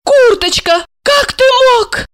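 very high theatrical wail; betrayed woman hamming up her grief; melodramatic cry. A narrator's reading. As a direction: wail it hand on heart. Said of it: "воскликнула Александра".

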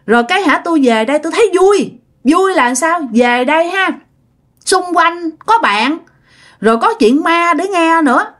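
a touch of put-on girlishness; girl's voice. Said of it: "bây giờ nói giọng con gái luôn".

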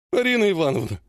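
pleading whine rising high on the denial; tearful whine. Acted. Ogonkov whining tearfully to Arina Ivanovna. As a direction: whimper it like a boy about to cry. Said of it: "плаксиво заныл он".

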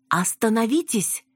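high-pitched interjection; mildly exclaimed interruption; interrupting. A narrator's reading. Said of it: "прервала их Яна".

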